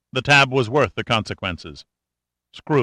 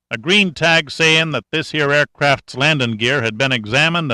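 lightly raised folksy sergeant voice; a hint of a wry country boy; country mechanic; 3 semitones higher than usual. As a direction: talk like a sly old country mechanic. Cashman voice held.

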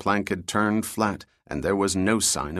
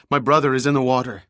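urgent, fast, high yell; 4 semitones higher, 4 dB louder than usual. Acted. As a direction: cry out in panic for help. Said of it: "she yelled".

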